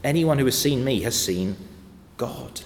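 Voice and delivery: with credibility. Acted. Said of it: "But Jesus said with credibility".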